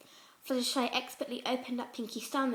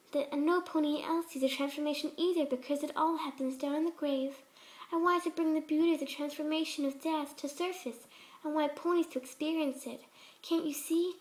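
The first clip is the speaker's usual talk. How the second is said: a hint of a gentle, higher pony voice, sweetly unsettling; lightly voiced sweet Fluttershy; 4 semitones higher than usual. Fluttershy voice again.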